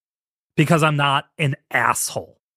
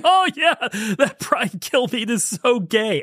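high-pitched mock exclamation; drawn-out high mocking quote; mocking imitation; 10 semitones higher, slower than usual. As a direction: crow it high, imitating a cheap jibe. Acting out the show's mocking gag.

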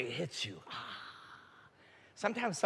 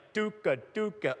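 imitated typewriter clacking; 3 semitones higher than usual. Eighth grader learning to type, imitated clacking. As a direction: sound out an old typewriter key by key. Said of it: "old typewriter".

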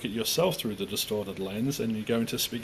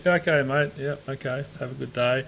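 breezy, higher brush-off; calm dismissal; 3 semitones higher, 4 dB louder than usual. Shown as a demonstration. Showing how to disengage from a rude stranger: breezy brush-off. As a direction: let it go lightly and walk away. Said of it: "I can say".

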